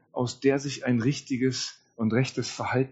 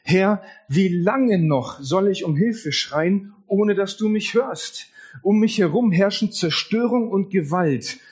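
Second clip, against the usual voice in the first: higher, slowed, pleading lament; lamenting cry; 4 semitones higher than usual. Retold or imitated. Prophet crying out to God in despair, pleading lament. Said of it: "und er ringt und er ruft aus".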